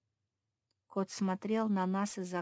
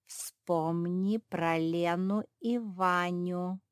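slow, silky menacing hint; slow sly villain cat; insinuating; much slower than usual. Acted. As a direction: coax her with a veiled threat. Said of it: "вкрадчиво произнёс кот".

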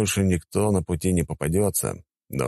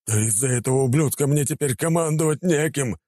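wailing yell; 9 semitones higher than usual. Acted. Attacker wails at the commander, high and outraged. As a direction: cry out in outrage. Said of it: "завопил тот".

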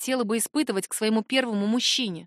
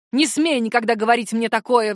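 flaring up; 4 dB louder than usual. Acted. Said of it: "взвилась она".

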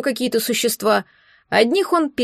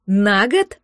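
breathless shock; 3 semitones lower than usual. A narrator's reading. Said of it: "выдохнула я".

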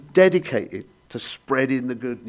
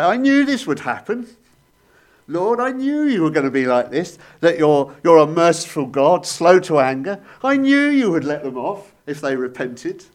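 petulant complaint; 3 semitones higher, 5 dB louder than usual. Retold or imitated. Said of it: "has the temerity to say".

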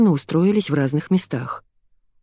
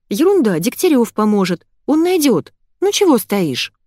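put-on bossy girl; 6 semitones higher, 4 dB louder than usual. Masha urges lost girl.

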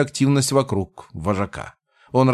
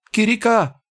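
high goblin shriek; 11 semitones higher than usual. Acted. Panicking goblins.

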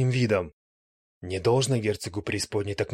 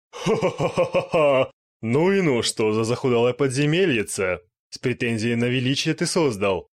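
laughing like a madwoman; 2 semitones higher, 4 dB louder than usual. Acted. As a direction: cackle wildly and sneer at him. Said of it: "хохотала как сумасшедшая".

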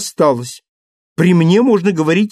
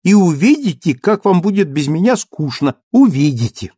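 high, loud pretend fury; mock indignation; 6 semitones higher, 6 dB louder than usual. A narrator's reading. Cosette threatening to leave her father and husband, high and loud. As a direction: storm off in a playful sulk.

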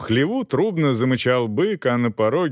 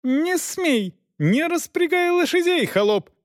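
very high, commanding lady's cry; high shout of a mistress. A narrator's reading. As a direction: scold the servant from above. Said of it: "кричала его бывшая хозяйка".

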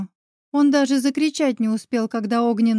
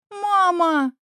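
higher, calling for her mother; anguished cry; 6 semitones higher than usual. A narrator's reading. Girl in the cage calls to her screaming mother, higher. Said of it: "крикнула я".

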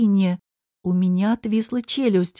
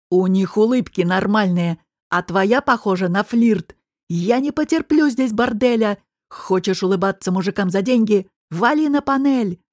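angry boss. Acted. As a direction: spit the insult at her. Boss insults the waitress.

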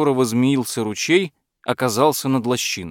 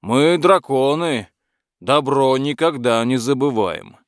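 eager dragon. Acted. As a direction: coax the knight generously. Dragon offering gifts.

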